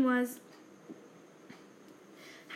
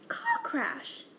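roar. A narrator's reading. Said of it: "roared Hagrid".

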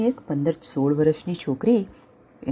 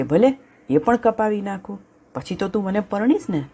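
eager lion; 5 semitones higher than usual. Acted. Lion agrees again.

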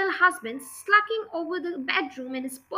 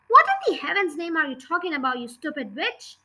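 angry shout. Acted. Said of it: "Mister Wormwood shouted".

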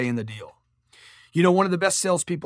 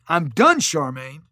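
a louder, insistent I'm done; retold outburst; 4 dB louder, slower than usual. Telling the fundraiser he's finished giving, mock outburst. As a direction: push it out like you're losing patience. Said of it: "I'm freaking out".

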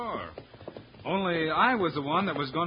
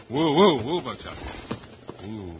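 calling whoa. Acted. Calling his horse to stop.

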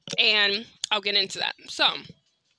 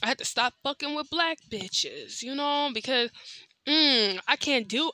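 mocking the uncle. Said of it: "he'll be like".

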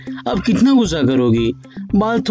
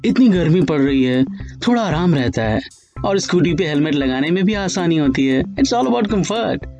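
lovingly explaining. Acted. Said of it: "प्यार से समझाते हुए कहा".

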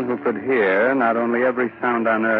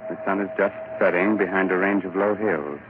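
story narration; 2 semitones lower than usual. Acted. Narrator sets the scene.

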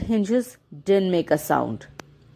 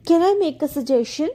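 lightly purred, quick cat voice; purring cat; 7 semitones higher, faster than usual. Acted. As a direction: purr the offer like a sly cat. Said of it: "purred the cat".

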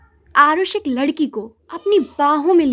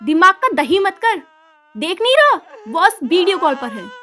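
loud, higher angry bark; angry snap; 4 semitones higher, 4 dB louder than usual. Acted. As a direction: shut him up with a slap. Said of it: "गुस्से से". (गुस्से में डांट)

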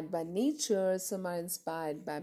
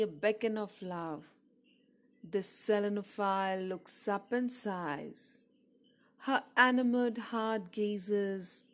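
poem recitation. Acted. Poet reading an ode to the moon, measured recitation. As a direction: recite it line by line, letting each phrase settle.

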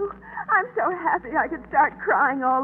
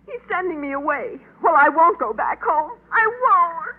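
tearful. Acted. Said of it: "she's crying".

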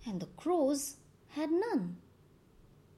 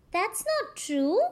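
crying; 7 semitones higher than usual. A narrator's reading. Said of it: "and he started crying".

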